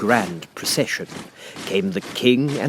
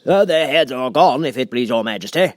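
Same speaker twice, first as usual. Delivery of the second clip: soldier's shout; 5 semitones higher, 5 dB louder than usual. A narrator's reading. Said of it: "the soldier shouted in reply".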